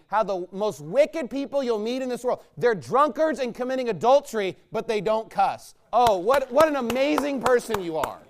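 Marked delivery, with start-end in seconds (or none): 5.9-8.2 sarcastic praise. Real, not acted. Sarcastic praise of non-cussers.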